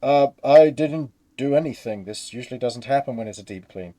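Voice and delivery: loud, defensive start easing off; a mildly alarmed worker making excuses; flustered cleaner. Acted. Cleaner explains the mishap to onlookers, flustered. Game master voices panicked cleaner.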